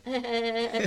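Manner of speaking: imitated put-on hey-hey-hey chuckle; giggly cheerfulness. Mother turns back to her daughter, put-on giggly cheer. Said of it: "跟我女儿在笑嘻嘻的".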